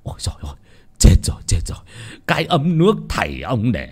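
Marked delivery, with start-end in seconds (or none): 0.0-0.5 breathless whispered cry of dismay; shocked gasp. Acted. Landlord seeing the heirloom teapot smashed, whispered dismay.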